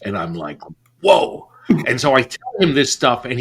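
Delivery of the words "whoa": high, loud mock-stunned exclamation. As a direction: act out sudden astonishment. Stunned reaction to a threat.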